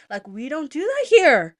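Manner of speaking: loud, high, slow indignant objection; pissed off. Retold or imitated. Traveller objecting to the board's place name, pissed off. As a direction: lay down the rule in outrage. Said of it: "Now I'm pissed".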